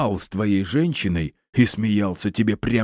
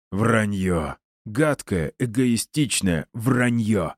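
mock accusation; 4 semitones higher, slower than usual. Villain accusing the professor of lying.

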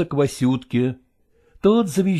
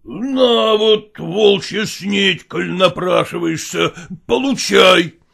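shouting husband; 3 semitones higher, 3 dB louder, slower than usual. Acted. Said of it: "крикнул Михайло".

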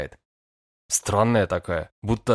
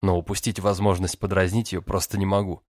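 usual speaking voice

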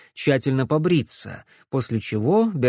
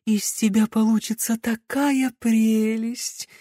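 delighted; 10 semitones higher than usual. A narrator's reading. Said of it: "восхищённо выдохнула Мелисса".

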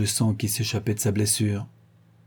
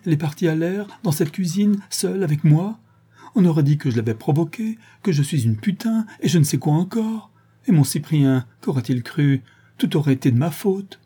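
higher, pleading, upset; distressed plea; 6 semitones higher than usual. Acted. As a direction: plead desperately, voice up.

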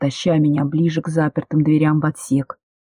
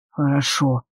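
conciliatory; 3 semitones lower, 3 dB quieter than usual. Acted. Demyan agrees with her to end the argument, conciliatory. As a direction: lower and softer, giving in. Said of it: "примирительно согласился".

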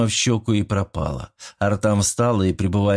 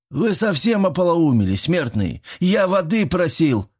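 angry yell; 7 semitones higher than usual. A narrator's reading. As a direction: yell at the fools after being scalded. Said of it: "закричал он". (Иль кричит на смертных в возмущении)

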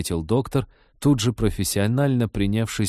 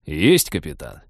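brisk military report; 5 semitones lower than usual. Acted. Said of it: "браво отрапортовал пилот".

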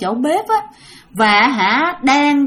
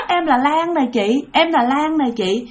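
ghostly voice. Retold or imitated. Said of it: "nghe tới".

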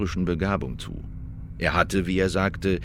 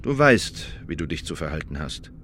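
repeated order; 4 semitones lower than usual. Retold or imitated. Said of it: "lediglich wiederholt".

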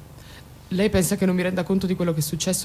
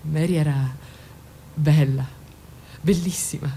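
breathed out in a whisper; 2 semitones lower, slower than usual. Acted. Mother whispering about her lost daughter. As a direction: let the word fall to a whisper.

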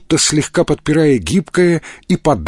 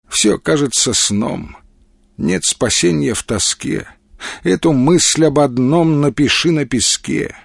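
slow, measured verse reading; poem recitation; slower than usual. Acted. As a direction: recite it evenly, lingering on line endings. (размеренное чтение стихов)

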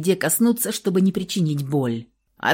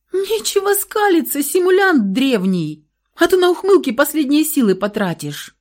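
much higher, loud teasing scold; mock scolding; 8 semitones higher, 5 dB louder than usual. A narrator's reading. Woman scolds grinning wounded lover, teasingly. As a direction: scold him fondly.

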